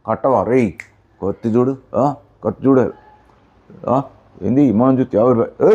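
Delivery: thug menace. Acted. Knife-waving thug demanding money, lightly menacing. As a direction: lean on him like a street bully.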